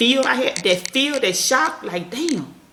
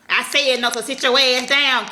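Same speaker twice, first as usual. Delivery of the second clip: stern parent command; 4 semitones higher, 4 dB louder than usual. Shown as a demonstration. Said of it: "Be like".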